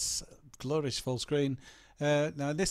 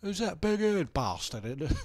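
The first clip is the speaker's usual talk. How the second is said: put-on slow Cockney accent; 5 semitones higher, slower than usual. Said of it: "I'm gonna do this in a Cockney accent".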